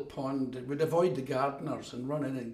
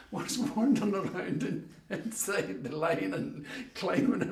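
laughing; 2 semitones higher than usual. Real, not acted. Laughing through frog story.

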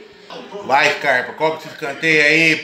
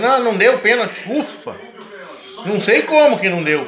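relieved; 6 semitones higher than usual. Real, not acted. Penalty not given, relief.

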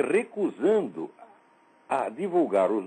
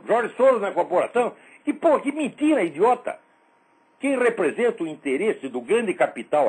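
angry shouting; 2 semitones higher, 4 dB louder than usual. Real, not acted. Angry rant at critic.

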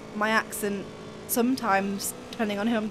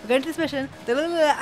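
quick, run-together mission commentary; sped-up talking; 3 semitones higher, much faster than usual. Retold or imitated. Imitating his commentary sped up, fast talking. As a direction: rattle it off like double-speed playback. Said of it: "then you speed it up".

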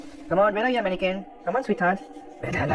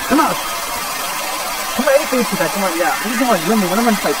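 loud, higher taunting shouts; loud challenge; 4 semitones higher, 6 dB louder than usual. Real, not acted. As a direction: goad the monster to fight. Challenging the monster.

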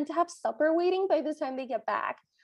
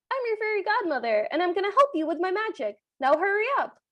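higher, fast, bossy godmother; brisk fairy godmother; 5 semitones higher than usual. Retold or imitated. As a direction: rush through it impatiently. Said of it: "the fairy godmother interrupts her with".

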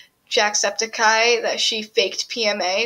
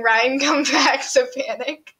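higher, slow drawn-out mock yell with a laugh; mild mock yell; 4 semitones higher than usual. Teen retelling yelling a band plea at school, mock yell. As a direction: shout it out, slowly, like calling across the bus lot. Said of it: "So I started screaming".

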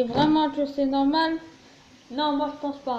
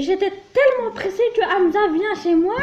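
laughing; 5 semitones higher, 4 dB louder than usual. Real, not acted. Laughs while confessing.

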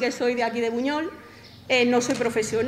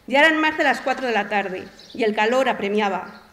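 even, composed literary narration; story reading. Acted. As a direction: read your own story aloud to an audience. Reads own short story aloud.

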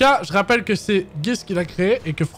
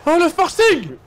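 high triumphant cheer; excited; 11 semitones higher, 3 dB louder, slower than usual. Real, not acted. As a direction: celebrate the win, pitched up. Finally passes after many tries.

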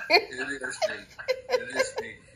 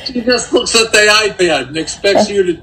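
laughing; 5 semitones higher, 15 dB louder than usual. Real, not acted. Dad laughing while telling.

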